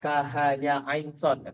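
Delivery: "kahaya ain sod" with short syllables for the first letters; wrong reading. Shown as a demonstration. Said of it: "Dia dibacanya bukan". ("kahaya ain sod" dibaca salah, bukan nama huruf penuh)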